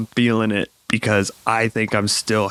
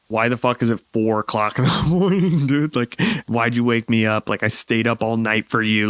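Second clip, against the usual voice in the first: annoyed wife. Retold or imitated. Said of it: "actual wife mode where she's like".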